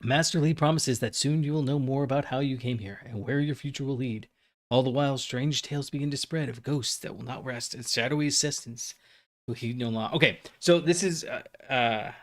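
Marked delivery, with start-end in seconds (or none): 0.0-10.1 even storyteller's read; story narration. Acted. Player reading chapter introduction aloud, measured narration. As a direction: narrate the prologue to your audience.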